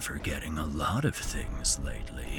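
menacing creature whisper; deep cockroach voice. Acted. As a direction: whisper it like a looming insect. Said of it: "The cockroach has a deep voice".

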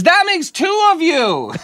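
very high, slow mock relay; relaying stranger. Stranger relaying husband's retort, very high slow mock. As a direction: drag it out, awkwardly translating. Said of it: "the lady in between says".

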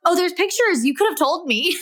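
lightly voiced little kid discovering something; imitating three-year-old. Mother quoting daughter finding the safety booklet, lightly imitated child. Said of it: "and she goes".

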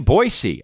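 put-on Boise said BOY-see, with an s; local pronunciation. Shown as a demonstration. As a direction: punch Boise high, with a crisp s in the middle. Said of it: "that's how you say it".

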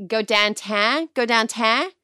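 mock Pittsburgh accent, "downtown" flattened to "dahntahn". Shown as a demonstration. Showing cohosts her husband's hometown speech, in a Pittsburgh accent. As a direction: demonstrate how Pittsburghers say "downtown". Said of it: "My husband is from Pittsburgh".

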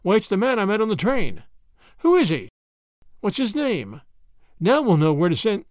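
eager, mildly excited questions; a touch of excitement, lively emphasis. A narrator's reading. Grandma eager to learn the man's name, excitedly. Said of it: "said Grandma excitedly".

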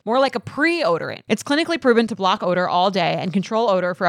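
upbeat sponsor read; podcast host reading a deodorant ad. Acted. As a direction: sell the deodorant to the listeners. Reads a sponsor ad.

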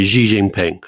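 "Xi Jinping" with a buzzing "zhee" for Xi; habitual mispronunciation. Shown as a demonstration. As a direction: say "Xi Jinping" as "Zhee Jing-ping". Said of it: "I do tend to say".

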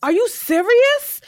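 high-pitched retold indignation; Ghost. Ghost telling her she's out of line, indignant. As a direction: imitate an upset man refusing to calm down. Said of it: "he's like".

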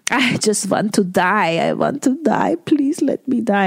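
high, whiny put-on voice of the mother begging to die; mock dying mother. Mother in hospital begging to die, hammed-up wail. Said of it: "she threatened to kill herself".

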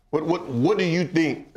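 ordinary delivery

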